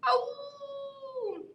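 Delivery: high birdlike question; bird voice. Acted. George the bird worries to the woman, high question.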